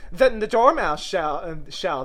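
high, loud call; crying out. A narrator's reading. Hatter and March Hare volunteering the Dormouse, crying out. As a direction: cry it out keenly. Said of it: "they both cried".

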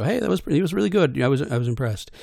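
a casual fan saying well done; fan praise. Retold or imitated. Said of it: "People will come up after the show".

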